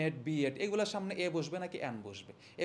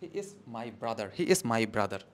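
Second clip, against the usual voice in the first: "He is my brother" said slowly and low; slow model answer; 8 semitones lower, much slower than usual. Shown as a demonstration. Teacher dictates translation to students, slow. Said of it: "ট্রান্সলেশনটা করতে হবে".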